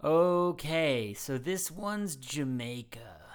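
drawn-out, hesitant reveal; wary announcement. Real, not acted. Host announces a risky accent pick to his co-host, wary and drawn-out. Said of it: "Why do you say it like that?".

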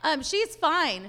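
high, startled gasp of a realization; suddenly remembering, embarrassed; surprised neighbor. Retold or imitated. Neighbor telling mom she forgot to tell her, surprised. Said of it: "And she's like".

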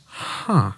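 a quiet, baffled little huh; a soft, dumbfounded huh of discovery; puzzled huh. Retold or imitated. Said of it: "making the following noise".

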